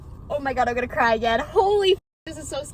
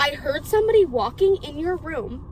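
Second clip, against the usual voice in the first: retold insistent revelation. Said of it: "this is how she said it".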